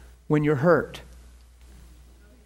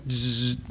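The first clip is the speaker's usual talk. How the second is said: lower, drawn buzz; imitated zap; 6 semitones lower, 5 dB quieter than usual. Preacher mimics a jolt from the Lord, low buzz. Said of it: "he just, like".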